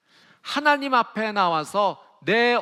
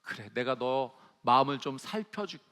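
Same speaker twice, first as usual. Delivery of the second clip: tender comforting God; 5 semitones lower than usual. Retold or imitated. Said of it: "하나님께서 이거를 기도로 받아주시는 거예요".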